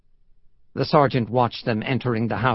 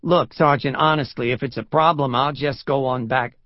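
higher, pleading New Yorker; louder protest in a New York accent; 3 semitones higher, 3 dB louder than usual. Acted. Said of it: "The New York accent was gone".

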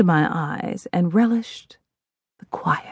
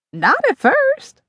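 higher, slow reluctant admission; admitting; slower than usual. Acted. Mother admitting to daughter, reluctant. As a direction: confess it grudgingly. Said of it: "she admitted".

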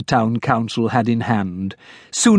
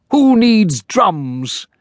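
scornful councillor; 10 semitones higher, 3 dB louder, much slower than usual. Acted. Sharpnack character voice.

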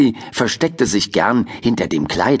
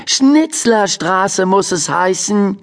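put-on boy voice; 10 semitones higher, slower than usual. Benny corrects turtle.

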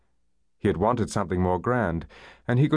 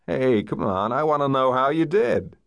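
higher, insistent American coaxing; eager urging; 6 semitones higher, 3 dB louder than usual. A narrator's reading. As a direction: press her eagerly for the news. Boyfriend eagerly urges her to tell.

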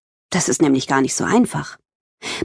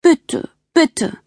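pleading; 10 semitones higher than usual. Acted. Begging her sister for help.

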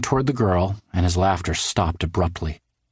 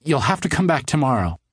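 stern; 7 semitones higher than usual. A narrator's reading. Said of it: "Josephine told him sternly".

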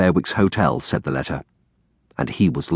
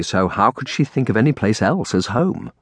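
plain reading voice

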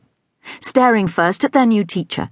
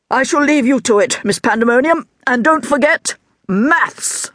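higher, firm parting reminder; stern headmaster; 7 semitones higher than usual. A narrator's reading. Headmaster leaving and reminding the teacher about maths, firmly. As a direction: leave with a pointed warning.

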